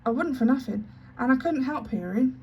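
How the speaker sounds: anxious protest. Acted. Maid protests to the headmistress, high and pleading. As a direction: protest your innocence in a rush. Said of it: "Becky protested".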